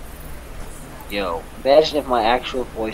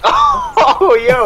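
voice crack; 14 semitones higher, 8 dB louder than usual. Real, not acted. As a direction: voice cracks up high. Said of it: "that voice crack was like heaven".

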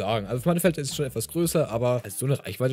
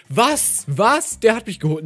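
high, loud disbelief; shocked outburst; 8 semitones higher, 7 dB louder, slower than usual. Real, not acted. Gamer reacting to being taken out, shocked and loud. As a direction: burst out in real disbelief. Player killed in game, protesting.

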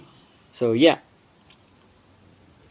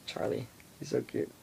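whispering; 9 dB quieter than usual. Real, not acted. Whispering to dog.

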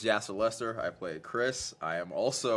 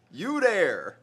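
You there said higher and louder in mock German command; German accent; 8 semitones higher, 6 dB louder than usual. Shown as a demonstration. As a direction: bark You there like a guard. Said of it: "it means".

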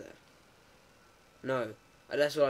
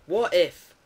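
loud, higher indignant protest; hammed-up indignation, voice pushed up; mock outrage; 4 semitones higher, 6 dB louder than usual. Player berating scientists sending him in, mock outraged.

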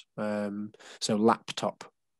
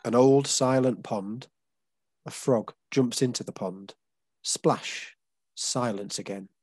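poem reading; slower than usual. Shown as a demonstration. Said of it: "basically, this is the pattern".

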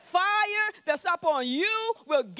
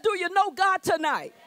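rousing repeat; 4 semitones higher, 3 dB louder than usual. Real, not acted. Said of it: "repeats the question louder".

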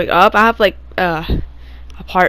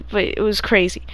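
breathy half-whisper; whispered aside; 2 semitones lower, 8 dB quieter than usual. Real, not acted. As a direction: whisper it to yourself. Aside on the creature.

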